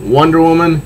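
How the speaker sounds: hammed-up comic-book villain, slow taunt; villain Clayface. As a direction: taunt the princess, savouring each line. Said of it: "And he is".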